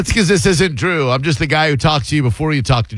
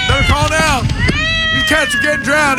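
high-pitched mock threat in a southern accent; hammed-up southern call-in plea; 11 semitones higher than usual. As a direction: holler it like a southern radio shock jock. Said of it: "I'm talking with a southern accent".

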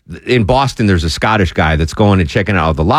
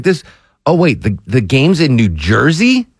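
surprised; 5 semitones higher than usual. Pretend. Fan discovers venue is elsewhere.

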